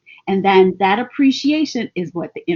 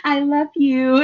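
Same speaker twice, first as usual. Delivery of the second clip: laughing love note; 5 semitones higher than usual. Retold or imitated.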